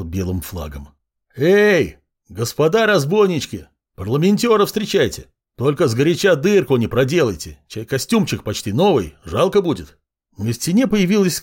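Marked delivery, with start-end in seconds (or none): 1.4-10.0 calling out. Acted. Hero hails the bandits' fortress.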